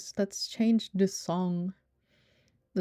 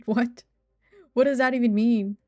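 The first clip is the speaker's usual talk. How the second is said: baffled; 3 semitones higher, 7 dB louder than usual. Real, not acted. Baffled by chat's word "Wacoing.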